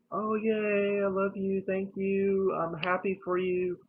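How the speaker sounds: high, gushing congratulations; gushing friends. Retold or imitated. Friends cheering his coming-out post, high and gushing. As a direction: bubble over like cheering friends.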